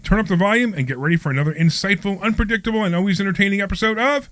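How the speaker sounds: upbeat radio host introduction; show intro read. Acted. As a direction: announce the show with polished energy.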